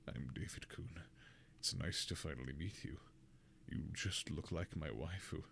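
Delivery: hushed, low anime-nerd murmur; awkward anime fanboy. Acted. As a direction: play a shy waifu-lover, hushed and deep. Performs the copypasta in character.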